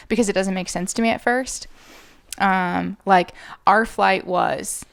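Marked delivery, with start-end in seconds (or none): 3.7-4.9 "Our" pronounced like the letter R, "ar"; our said like "are". Shown as a demonstration. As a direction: read "Our" as "ar", one short syllable. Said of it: "saying our as R".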